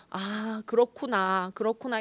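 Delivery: nod along gently as you listen; mild show of empathy; token sympathy. Shown as a demonstration. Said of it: "공감을 못 해주겠으면 고개라도 끄덕여".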